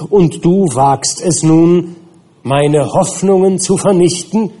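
a monster pleading its suffering, then bursting out; wronged creature, bitter. Acted.

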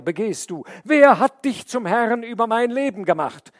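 loud, high protest; outraged cry. A narrator's reading. The man shouts at the snake, loud and high. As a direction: hurl the question at her. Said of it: "rief er".

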